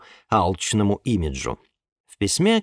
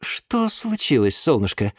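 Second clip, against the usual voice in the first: cautious. Acted. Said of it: "осторожно поинтересовался".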